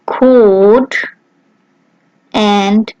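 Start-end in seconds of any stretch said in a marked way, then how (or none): 0.1-0.9 Kot with a hard k and a long o; German Kot, long o; German pronunciation. Shown as a demonstration. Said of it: "as in the words".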